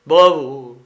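loud, hearty cry of approval; exclaimed cheer. A narrator's reading. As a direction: cheer it out at full voice. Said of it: "s'écria Edward".

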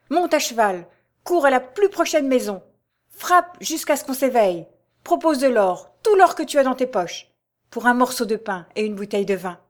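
high, loud urgent commands; shouted orders. A narrator's reading. Raoul shouts orders to his servant Jacques, loud. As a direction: bark orders out the window. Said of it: "il cria à Jacques".

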